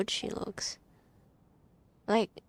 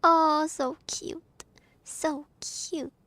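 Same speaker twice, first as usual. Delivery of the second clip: gushing; 7 semitones higher, 6 dB louder, slower than usual. Real, not acted. Gushing over a character.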